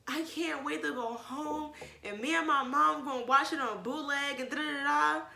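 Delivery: retold childish excitement; excited child. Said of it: "and I was so excited".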